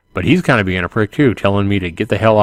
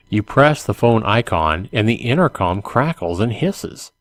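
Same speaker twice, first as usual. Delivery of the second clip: measured, clearly enunciated read-aloud; story narration; slower than usual. A narrator's reading. Gamebook reader describing a zombie-held bridge to the player, story narration. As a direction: set the scene for the player, line by line.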